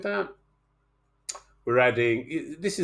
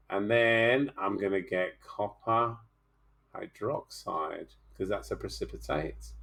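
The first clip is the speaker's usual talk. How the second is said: careful unhurried voice; 3 semitones lower, 4 dB quieter than usual. Real, not acted. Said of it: "I'm gonna start nice and slow".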